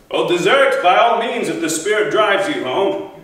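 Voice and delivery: a haughty threat that swells as it goes; scornful king dismissing a warrior. Acted. Agamemnon answers in scorn.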